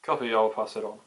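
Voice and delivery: radio voice from control; crackly two-way radio reply; over walkie talkie. Acted.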